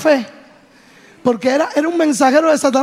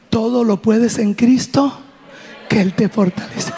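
steady encouragement. Retold or imitated. Mother to daughter crying from pain, steady reassurance.

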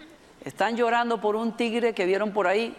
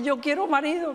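higher-pitched mock crying little girl; imitated tantrum wail; 4 semitones higher than usual. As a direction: whine it like a child in a tantrum, without shouting. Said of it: "se pone a pegar gritos y llora".

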